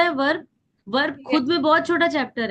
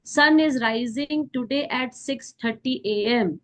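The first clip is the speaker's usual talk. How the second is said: slow dictation; much slower than usual. Shown as a demonstration. Teacher dictates example sentence.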